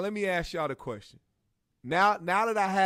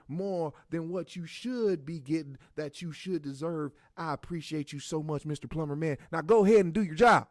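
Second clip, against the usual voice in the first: mock prayer. The speaker praying for the plumber in a mock preacher voice. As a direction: pray over him like a showy preacher.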